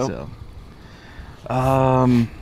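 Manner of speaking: talking around a cigar; speaking between cigar puffs; cigar in mouth. Real, not acted. Seen 4: left speaker holds cigar at lips, then lowers it, exhales smoke.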